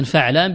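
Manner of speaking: فعلان with an "a" after the ف: fa'laan; fatha on first letter. Shown as a demonstration. Teacher showing students the pattern, فعلان said "fa'laan". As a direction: open the ف of فعلان with a short "a". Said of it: "بفتح الفاء".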